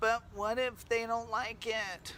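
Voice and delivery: high-pitched, whiny little voice. The speaker voices the whiny voice in their head. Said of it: "the whiny voice in my head that goes".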